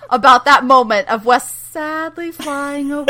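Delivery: helpless laughter breaking into speech; laughing. Real, not acted. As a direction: crack up while recapping. Cracks up recapping the scene.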